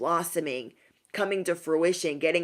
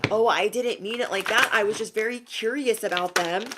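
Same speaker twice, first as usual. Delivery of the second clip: higher mock excuse; protesting innocence; 4 semitones higher than usual. Opponents explaining why they caused chaos, protesting innocence. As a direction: play the innocent, voice lifted.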